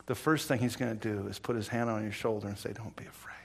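hushed whisper of reassurance; whispered comfort. Acted. Preacher whispers Jesus' words to the frightened believer, hushed. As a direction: breathe it like a gentle promise.

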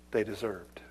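whispered close. Acted. Preacher warning sinners, whispered. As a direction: breathe it out. Hushed sermon ending.

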